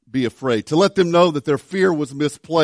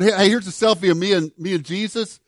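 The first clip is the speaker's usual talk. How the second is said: mock angel; 3 semitones higher than usual.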